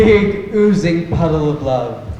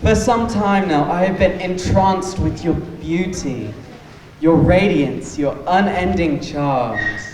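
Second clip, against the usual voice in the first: slow grand romantic declaration; rehearsing a proposal. Acted. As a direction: lay the flattery on thick, slowly. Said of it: "I want to practice my proposal".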